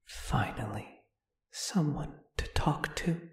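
a lonely spirit whispering to a newcomer; long-dead spirit murmuring with eerie delight; ghostly whisper. Acted.

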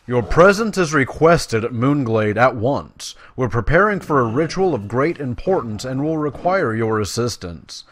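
emphatic, formal reading of a druid's summons; dramatic game dialogue reading; quest-giver read-aloud. Acted. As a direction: deliver the summons with weight and urgency. Reads quest text aloud.

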